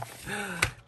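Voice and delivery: short, high giggle; nervous giggle. Real, not acted. Nervous before opening the inclusions.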